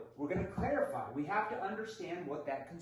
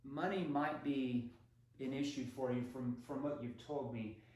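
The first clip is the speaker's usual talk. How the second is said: gentle empathetic salesman; understanding tone; 2 semitones lower than usual. Shown as a demonstration. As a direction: soothe the concern before asking. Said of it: "You're gonna say this".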